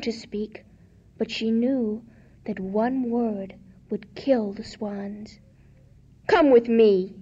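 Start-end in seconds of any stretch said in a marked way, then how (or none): 6.3-7.1 kind king. Acted. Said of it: "said the king".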